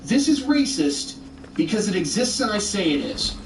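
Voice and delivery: high, sing-song mocking of the critic's argument; a childish parody of the other side's logic. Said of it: "Your whole argument has been".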